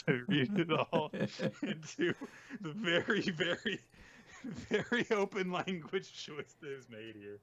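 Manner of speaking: laughing through the words; giggling while reading it. Real, not acted.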